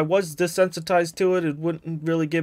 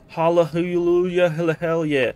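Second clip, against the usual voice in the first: jubilant; 3 dB louder, slower than usual. Real, not acted. Celebrating finding shotgun ammo.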